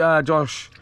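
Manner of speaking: ordinary talk, nothing marked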